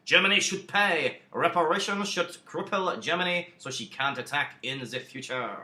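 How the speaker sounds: hammed-up French accent as Clemenceau, rising loud on Germany should pay; mock French accent, insistent; clumsy French-accented demand; bad French accent. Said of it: "Sorry about that awful accent".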